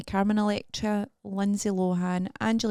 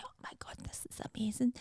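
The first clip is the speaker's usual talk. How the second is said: soft, whispery mock amazement; retold awe; 3 semitones higher, 12 dB quieter, faster than usual. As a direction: murmur it as remembered wonder. Retells own awed first reaction.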